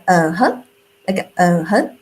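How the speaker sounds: "Uh-huh" dipping low then rising; third tone like uh-huh. Shown as a demonstration. Teacher comparing the third tone to "Uh-huh". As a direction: say "Uh-huh" like agreeing, dip and rise. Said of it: "another word in English".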